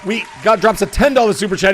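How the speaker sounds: hoarse voice cracking high; strained, breaking excited announcing. Real, not acted. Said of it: "As my voice continues to crack".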